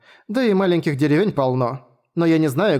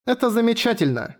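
put-on girl holding back tears; 9 semitones higher than usual. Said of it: "сдерживая слёзы".

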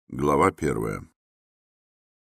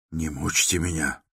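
plain reading voice

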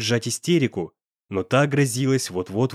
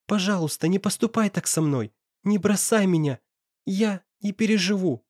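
put-on higher, begging girl's voice; pleading girl; 7 semitones higher than usual. A narrator's reading. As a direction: girlfriend begging boyfriend, pleading. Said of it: "с немой мольбой".

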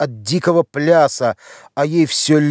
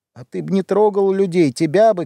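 mock shout; 5 semitones higher than usual. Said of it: "кричала старуха".

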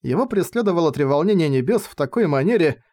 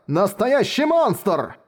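slow, higher horrified exclamation; horrified cry; 5 semitones higher, much slower than usual. A narrator's reading. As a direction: drag it out in horror.

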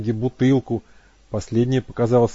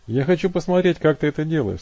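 raised, louder demand; voiced Matt, insistent; 6 semitones higher, 5 dB louder than usual. A narrator's reading. Matt pressing Abby to use her power, insistent. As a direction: push him to show it.

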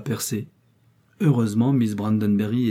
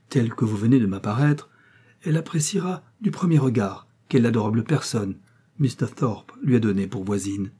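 moved voice. Acted. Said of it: "prononcé d'une voix émue".

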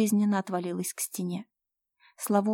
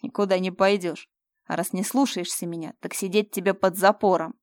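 harsh threat; 5 dB louder than usual. Acted. Fyodor locks Slava away.

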